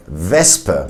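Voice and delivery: WESPE as "VESS-pe"; slow German WESPE with a hissed s; plain S, not sh. Shown as a demonstration. Teacher shows the exception, s not sh. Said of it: "not be pronounced as a sh".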